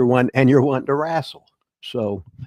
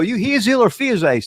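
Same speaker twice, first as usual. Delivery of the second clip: higher, lightly voiced barker asking in carny; carnival barker; 10 semitones higher, 3 dB louder than usual. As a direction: call out like an old carny barker. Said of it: "the carnival barker, you go".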